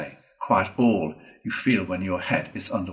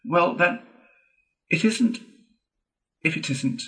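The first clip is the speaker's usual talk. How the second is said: higher, gentle soothing give-in, fading at the end; the mole soothing the indignant rat; 8 semitones higher than usual. A narrator's reading. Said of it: "replied the mole soothingly".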